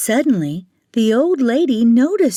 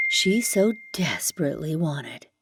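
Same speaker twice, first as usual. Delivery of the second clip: breathy whisper of longing; 4 semitones lower, 6 dB quieter than usual. A narrator's reading. Narrator whispering Karen's longing for the shoes. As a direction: hush it like a secret wish.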